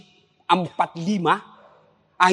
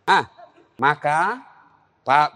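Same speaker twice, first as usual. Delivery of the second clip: ordinary delivery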